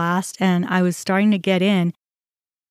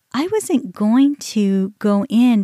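slow, drawn-out excuse; stretched-out mock protest; mimicked excuse; 2 semitones higher, slower than usual. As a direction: imitate her making excuses, dragging the words.

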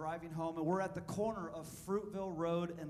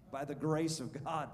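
emphatic praise; 5 dB louder than usual. Real, not acted. Preacher exclaiming praise.

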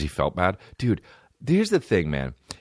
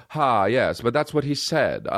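hammed-up old-movie girl with a laugh; mock a period-piece leading lady, airy laugh at the end; lightly voiced movie girl; girl in a period film; slower than usual. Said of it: "any kind of girl that talks like this".

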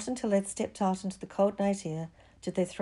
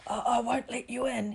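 puffed, higher-pitched voice; puffing; 6 semitones higher than usual. A narrator's reading. Gamekeeper at his window to the children, puffing. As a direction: speak as if short of puff. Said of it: "he puffed".

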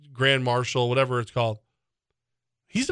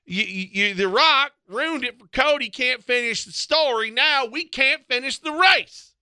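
nasally Larry the Cable Guy; 9 semitones higher than usual. Pretend. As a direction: rant like an angry race fan. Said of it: "I sound like a nasally version of Larry the Cable Guy".

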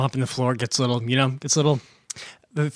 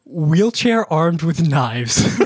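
struggling through giggles; can barely get the words out for laughing; much slower than usual. Real, not acted. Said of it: "You're struggling".

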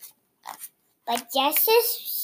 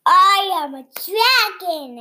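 dragon voice; 3 semitones higher, 6 dB louder than usual. Acted. Dragon speaks, roared.

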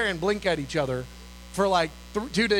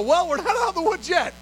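urgent caution; 8 semitones higher, 3 dB louder than usual. Retold or imitated. Cautioning excited colleagues.

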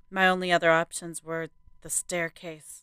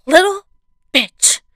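scoffing curse; 12 semitones higher, 13 dB louder than usual. A narrator's reading. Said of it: "she scoffed under her breath".

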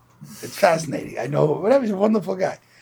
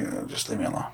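dejected brush-off; 4 semitones lower, 8 dB quieter than usual. Retold or imitated. Dejected man brushes him off.

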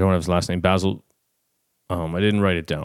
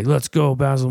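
crowd shout, imitated; 5 semitones higher than usual. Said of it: "I keep hearing in the crowd".

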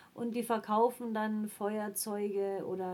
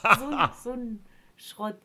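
laughing; 8 dB louder than usual. Real, not acted. Lacht über das Feuerzeug.

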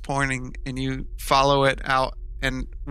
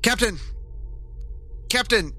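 shouting from crow's nest; 9 semitones higher than usual. Acted. Crewmate calls down from crow's nest.

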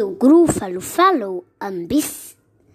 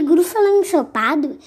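shocked; 6 semitones higher, 5 dB louder than usual. Acted. Gruffalo shocked, higher.

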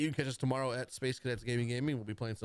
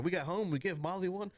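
higher-pitched Southern belle voice; 5 semitones higher than usual. Retold or imitated. Mom recounting the gift to Molly, imitated Southern belle. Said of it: "imagine the voice".

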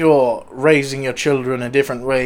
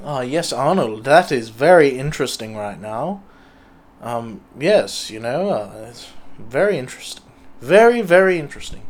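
interviewer voice; 4 semitones lower, 4 dB quieter than usual. Acted. Host character replies to Arnold.

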